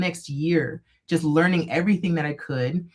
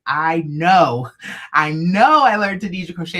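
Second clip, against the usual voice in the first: louder, insistent disbelief; freaking out; 6 dB louder than usual. Retold or imitated. Shaken fan insisting to the booth guy, louder protest. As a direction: protest that it really happened. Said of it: "I'm, like, freaking out".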